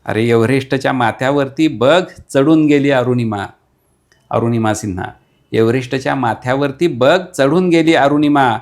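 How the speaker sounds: fiery declaimed verse, building to a call to fight; rally the listener to fight, line by line; rousing poem recital. Acted. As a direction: poet declaiming a battle poem to the audience.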